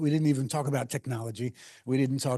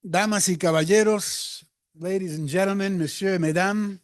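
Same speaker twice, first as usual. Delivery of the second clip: lucha libre announcer; 4 semitones higher, 5 dB louder than usual. Pretend. Grand opening call to audience.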